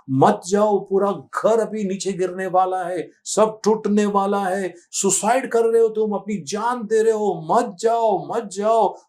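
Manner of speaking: half-acted begging, voice lifted up; retold tearful plea. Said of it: "रोने लगी, चिल्लाने लगी".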